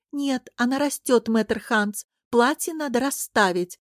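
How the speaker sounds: arguing. Acted. Older princess disputing with the tailor over a dress, arguing. Acted fitting quarrel with tailor.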